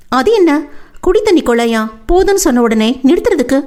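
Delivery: a touch of tearful protest from the heroine; Vennila, protesting. Acted. Vennila objects to being told to stop crying, mild protest.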